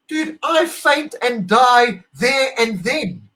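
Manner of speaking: stretched-out, slow, swooning cry; overwhelmed outcry. Real, not acted. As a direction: melt away over your hero, slowly. Overwhelmed by hero's head bow.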